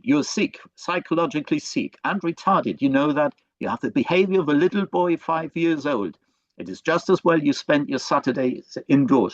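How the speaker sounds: put-on a touch of French accent, slightly lilting; imperfectly put-on French-accented mother; attempted French accent. Mother emotionally abusing her son, attempted French accent. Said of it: "kind of French accent. I'm, I'm not very good at that".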